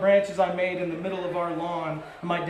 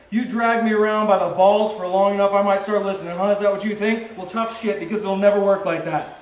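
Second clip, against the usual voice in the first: louder, sneering comeback; husband snapping back at his wife, louder; dad retorting; 6 dB louder than usual. Retold or imitated. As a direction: throw it back at her with contempt. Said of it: "That's my dad".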